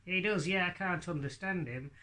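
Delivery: high northern lad puppet voice; Hadley. Acted. Puppet querying the ventriloquist, lightly voiced northern lad. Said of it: "he speaks with a northern accent".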